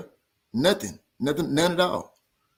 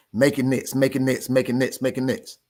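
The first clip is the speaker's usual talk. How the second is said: mock whiny repeat of make it next, words blurred to nits; parroting a rival's line to ridicule it; mocking imitation. Boxer mimicking how rival supposedly pleaded, mocking singsong. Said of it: "I never said it like that".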